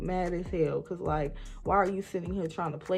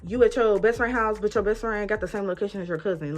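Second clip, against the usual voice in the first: angry accusation; 3 semitones higher, 6 dB louder than usual. Retold or imitated. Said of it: "I'm blowing her shit up".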